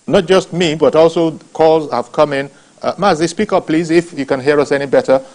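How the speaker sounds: to someone hard of hearing. Real, not acted. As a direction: project to a caller on a bad line. Host urges silent caller to speak.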